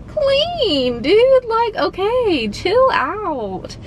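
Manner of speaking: exasperated. Real, not acted. Telling friends about the rude host, exasperated yell. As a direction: blurt it out, fed up and incredulous.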